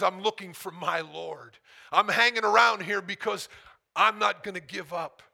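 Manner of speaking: loud, high, desperate calling out; pleading cry. Acted. Preacher voicing Mary's desperate search, loud and pleading. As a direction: cry it out as Mary searching for her Lord. Mary's plea voiced in sermon.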